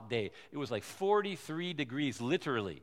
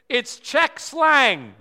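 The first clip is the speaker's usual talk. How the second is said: very slow, loud and higher reveal; slow grave reveal; 7 semitones higher, 12 dB louder, much slower than usual. Retold or imitated. Friend revealing the phrase is slang, slow and loud. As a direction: draw it out for the punchline.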